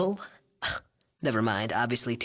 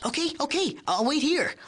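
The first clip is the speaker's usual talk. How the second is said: grudging; 13 semitones higher than usual. Acted. Grudging agreement after protest.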